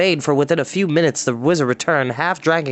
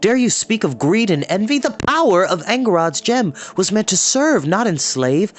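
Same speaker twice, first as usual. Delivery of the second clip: furious denunciation; 5 semitones higher than usual. Acted. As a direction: hurl the accusation in fury. Taran denounces the wizard.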